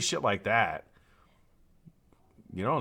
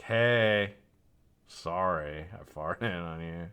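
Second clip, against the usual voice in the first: retold apology; 2 semitones lower, much slower than usual. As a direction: mildly act out saying sorry to the wife. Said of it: "had to, like, go and apologize".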